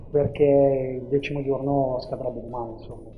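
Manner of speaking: phone-recorded interview audio; tinny cellphone recording; low quality stream. Real, not acted. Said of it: "ci scusiamo per la qualità dell'audio".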